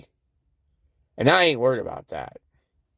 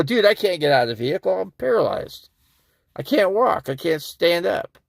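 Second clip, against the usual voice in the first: higher-pitched retold objection; retold protest; 6 semitones higher than usual. Paralyzed driver telling officer he can't get out, protesting. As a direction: replay your protest, pitched up. Retelling his protest to the cop.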